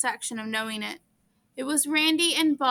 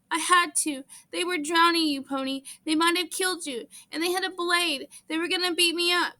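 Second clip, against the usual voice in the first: higher, shaky, hurrying toward the end; scared boy justifying himself; voice quavering slightly; 6 semitones higher than usual. A narrator's reading. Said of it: "his voice quavered slightly".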